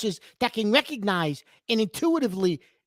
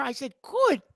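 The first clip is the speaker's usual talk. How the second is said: "could" set apart with a falling tone; stress on could; 4 dB quieter than usual. Real, not acted. Co-host corrects the host on his wording, stressing "could". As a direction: land on "could" as the key word. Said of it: "that's the key word there".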